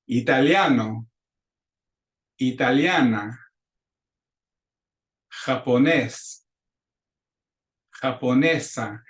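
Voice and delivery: slow, deliberate model pronunciation; teacher modeling Spanish words; repeat-after-me drill. Shown as a demonstration. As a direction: say each word clearly for a class to echo. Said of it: "clases repitan".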